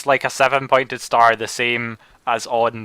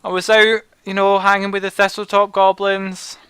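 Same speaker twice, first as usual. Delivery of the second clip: lightly raised goblin voice; a hint of a high goblin; 8 semitones higher than usual. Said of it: "He's like".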